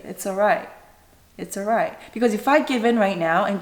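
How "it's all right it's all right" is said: soft, gentle comforting; soothing. Shown as a demonstration. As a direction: hush a child gently. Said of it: "embrace them and say".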